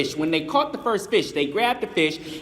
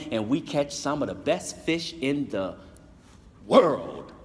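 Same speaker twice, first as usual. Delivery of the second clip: calm wise elder; 3 semitones lower than usual. Acted. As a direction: invite him in like a kindly old mentor. Wise elder welcomes the youth.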